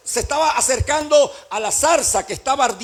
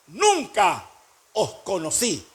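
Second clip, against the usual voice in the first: voice of Jesus; 4 semitones lower, slower than usual. Acted. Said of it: "Y yo le diré".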